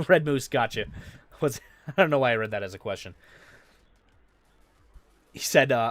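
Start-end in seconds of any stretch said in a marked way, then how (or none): 0.0-3.1 laughing. Real, not acted. Laughs at own misreading.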